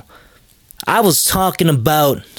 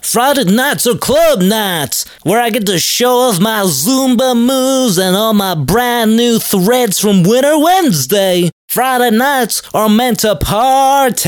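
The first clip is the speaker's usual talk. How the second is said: higher, pumped-up clubber hyping his Friday nights; party-boy voice; 5 semitones higher than usual. Acted. Bragging to his nerdy friend about club nights, pumped-up party voice. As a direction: sell the weekend like a club promoter, pitched up. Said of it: "why are you talking like this?".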